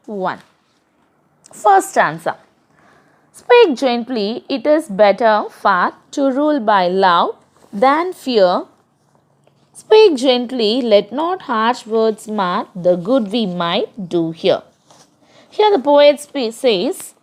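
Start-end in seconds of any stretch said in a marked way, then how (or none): 3.3-8.7 measured reading of a verse for the class; poem recitation. Acted. Teacher reciting a poem to her class, measured. 9.7-14.6 measured reading of a verse for the class; poem recitation. Acted. Teacher reciting a poem to her class, measured.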